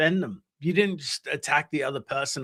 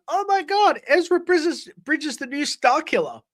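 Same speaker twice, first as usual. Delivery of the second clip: much higher, gushing excited fanboy; mock fan squawking; 10 semitones higher than usual. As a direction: imitate your old self squealing over a new show. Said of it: "squawking every time a Star Wars show came on".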